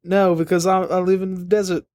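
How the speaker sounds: lightly voiced Australian old lady. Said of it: "I'm the old lady".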